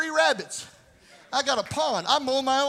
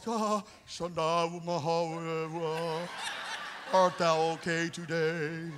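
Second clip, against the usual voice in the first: put-on lower, soft, slowed, laughing old-English fuss; mock tender old English; 9 semitones lower, 7 dB quieter, slower than usual. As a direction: coo over someone like a fawning saint. Mocks soft coddling churchgoers.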